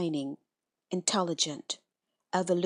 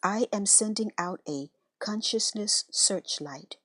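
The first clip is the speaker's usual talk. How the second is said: unhurried, reverent guided prayer; meditation prayer. Acted.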